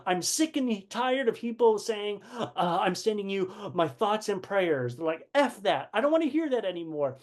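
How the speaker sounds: sick and tired of empty sympathy, voiced up; fed-up complaint. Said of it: "one of them said".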